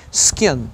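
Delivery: Skin with a tight, closed I, close to an E. Shown as a demonstration. Teacher to Brazilian students, Skin with a closed I. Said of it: "Eu coloco com E pra você não confundir".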